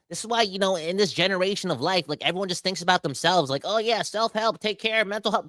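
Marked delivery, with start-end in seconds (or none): 3.6-5.5 higher, mildly mocking; a light mock of self-care talk. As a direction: roll your eyes at it.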